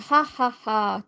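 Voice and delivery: lightly acted storybook monster laugh; mock villain laugh. Story monster laughing to scare girl.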